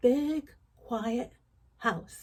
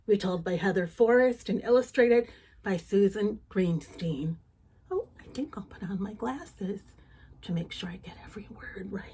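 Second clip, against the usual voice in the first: voiceless hushed whisper; 2 semitones lower than usual. Real, not acted. Storyteller to child before reading, hushed whisper.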